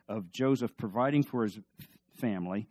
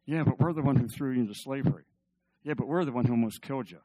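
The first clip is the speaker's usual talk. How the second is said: brothers' doubts; faster than usual. Retold or imitated. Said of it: "And they're thinking".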